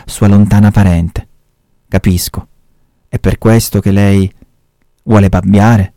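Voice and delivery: measured reading-aloud voice; story narration. A narrator's reading. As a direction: tell the story steadily, like a reader. Reads a Camilleri story aloud.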